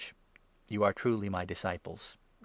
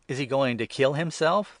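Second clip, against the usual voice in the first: louder, higher startled question; the Jews reacting to Jesus, raised and startled; exclaiming; 5 semitones higher, 6 dB louder than usual. A narrator's reading. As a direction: blurt it out in alarm. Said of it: "the Jews exclaimed".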